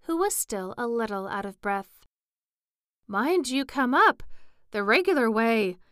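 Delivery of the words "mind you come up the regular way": loud, higher urgent warning. A narrator's reading. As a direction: warn him firmly from afar. Breathless queen warning king.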